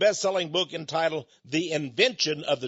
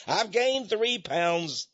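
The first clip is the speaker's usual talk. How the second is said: laughing confession; 3 semitones higher, much slower than usual. Real, not acted.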